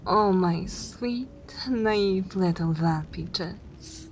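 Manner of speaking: slow, drawn-out indulgent teasing; condescending pet-name drawl; patronizing fondness. Acted. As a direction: coo it slowly, as to a naive darling. Gently mocking a naive companion.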